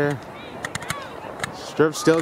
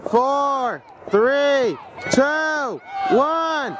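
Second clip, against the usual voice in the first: rising countdown, building up; new year countdown crowd; 5 semitones higher, much slower than usual. Real, not acted. Countdown to midnight.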